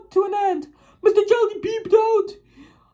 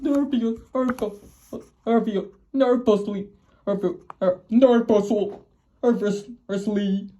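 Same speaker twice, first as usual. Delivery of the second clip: nervous; 9 semitones lower, 3 dB quieter than usual. Shown as a demonstration. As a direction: draw out the word nervously, low. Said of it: "glanced nervously".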